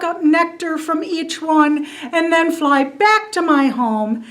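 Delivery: a chubby fuzzy bee chattering up at a god; little bee voice. Acted. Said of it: "flying from the back of the crowd is this little bitty creature".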